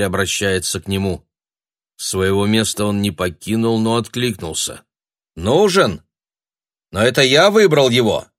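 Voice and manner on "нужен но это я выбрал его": put-on high, loud cry of an old sorcerer; indignant old man cry. A narrator's reading. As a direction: shout it like an offended old wizard. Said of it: "Дребезжащим старческим голоском".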